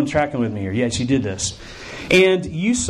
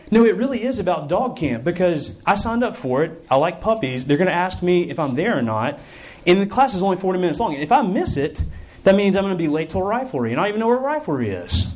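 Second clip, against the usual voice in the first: anxious protest; 3 semitones higher than usual. Acted. Camper protesting in own head.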